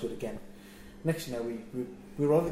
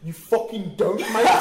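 loud, high outburst through laughter; retold furious disbelief; losing his mind; 7 semitones higher, 9 dB louder, slower than usual. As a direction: re-enact an exasperated explosion. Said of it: "just lose my mind".

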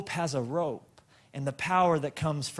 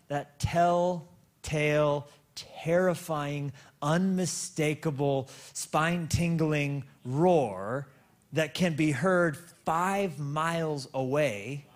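dramatic slow preaching; much slower than usual. Acted. Preacher builds dramatic description.

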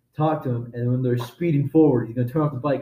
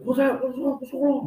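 feigned innocent concern; 12 semitones higher than usual. Pretend. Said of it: "be like".

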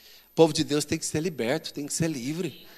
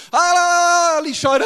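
loud wailing prayer; 10 semitones higher, 7 dB louder, slower than usual. Retold or imitated. Mimics noisy praying during sermon.

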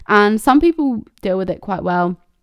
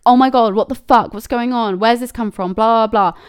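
mildly heated mock outburst, raised a little; angry response; 2 semitones higher, 4 dB louder than usual. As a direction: act out an indignant reply, lightly. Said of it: "The kind of angry response".

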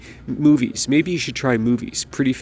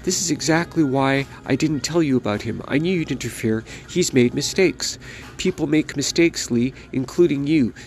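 angry mother; 2 semitones higher than usual. Acted. Mother tearing into her son, lightly voiced scolding. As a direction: berate him like a furious mom.

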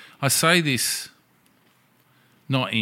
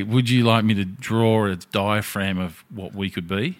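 slow pickup line; slower than usual. Retold or imitated. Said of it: "I was gonna say".

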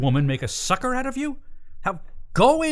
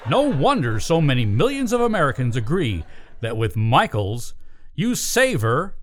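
ad read. Acted. Sponsor pitch in the scene.

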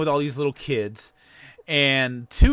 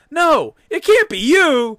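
mock panic; 11 semitones higher, 7 dB louder than usual. Mel sees the real killer.

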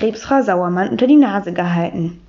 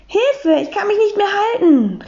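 much higher frightened call; panicked cry for help; 10 semitones higher than usual. Acted. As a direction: yelp for help while slipping off. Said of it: "rief Max".

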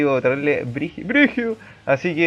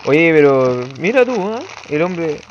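talking while eating candy; words around a mouthful of sweets; mouth full; slower than usual. Real, not acted. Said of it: "estoy comiendo dulce".

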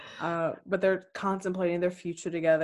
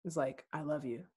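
hushed mock swoon; 13 dB quieter than usual. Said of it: "percepting even harder".

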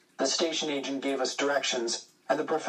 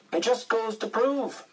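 higher, smug joke Englishman; 9 semitones higher than usual. A narrator's reading. Boy tells a joke, voicing the Englishman higher. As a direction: play the pompous Englishman of the joke. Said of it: "said the Englishman".

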